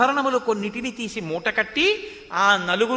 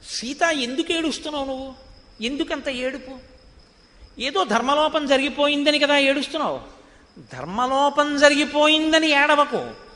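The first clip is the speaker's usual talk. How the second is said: higher, wheedling Ravana consoling Sita; a hint of a smooth-talking Ravana; coaxing Ravana; 5 semitones higher than usual. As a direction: sweet-talk her out of crying. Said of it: "Seethamma దగ్గరికి వచ్చేట అన్నాడు".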